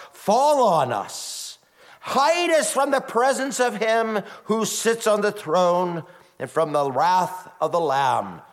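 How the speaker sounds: high, loud terrified plea; desperate cry. Acted. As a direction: cry out to the mountains in terror. Kings cry to the mountains.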